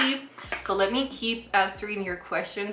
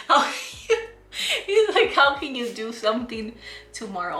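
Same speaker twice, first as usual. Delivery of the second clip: laughing through a confused dentist's question; squeaky laugh breaking into the quote; laughing while imitating the confused dentist; 2 semitones higher than usual.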